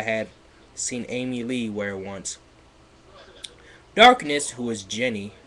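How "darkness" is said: dramatic. Acted. Dramatic reading of fanfic.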